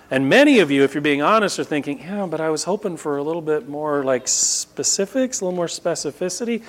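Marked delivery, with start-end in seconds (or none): 2.0-6.6 softer, higher mock hedging; tentative mock complaint, a little hushed; hesitant objector. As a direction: lightly imitate a listener timidly asking for more. Voices what hesitant listeners are thinking.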